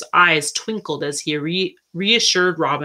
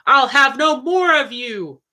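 higher-pitched, indignant story outburst; angry shout; 7 semitones higher than usual. A narrator's reading. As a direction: cry it out in read-aloud anger. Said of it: "he shouted".

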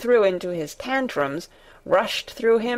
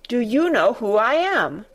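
firm falling demand, more haughty; more imperious demand; 3 semitones higher than usual. Acted. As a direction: press the question down harder. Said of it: "demanded Colin still more imperiously".

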